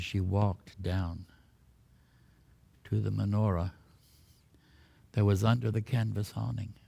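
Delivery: measured, hushed storyteller; solemn story narration. A narrator's reading. Tells a solemn miracle story.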